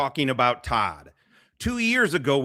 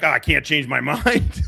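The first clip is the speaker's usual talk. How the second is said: mocking, laughing. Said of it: "he's like".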